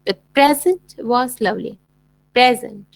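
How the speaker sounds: slow sentence, प्रेजेंट stressed on the first part; stress on PREsent. Shown as a demonstration. Teacher models the noun present in a slow sentence. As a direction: lean on the start of present. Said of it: "हम लोग कैसे pronounce करेंगे".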